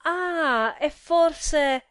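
high, loud exclamation; sudden realization. A narrator's reading. Husband suddenly remembering the visiting card, exclaiming loudly. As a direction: burst out as it dawns on you.

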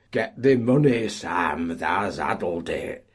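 loud chanting cry; rally behind Sam; crowd cry. Acted. The miners all cry out for Sam, loud. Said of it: "became the universal cry".

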